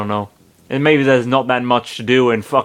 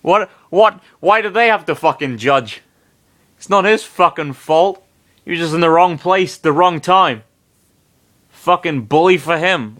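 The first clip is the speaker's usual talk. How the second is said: indignant rant; 4 semitones higher than usual. Real, not acted. Reader ranting in Sonic's defence, annoyed. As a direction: vent about the unfairness.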